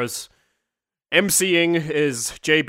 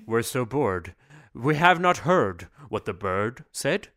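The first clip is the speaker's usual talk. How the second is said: mock poetry recital; 4 semitones lower than usual. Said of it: "do a poem with me".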